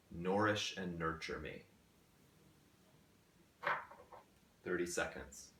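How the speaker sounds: measured questions with long pauses between phrases; guided meditation. Acted. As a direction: pose each question gently, leaving space to reflect. Poses guided meditation questions slowly.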